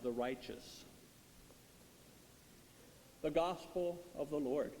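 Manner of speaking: measured, solemn proclamation; gospel reading. Acted.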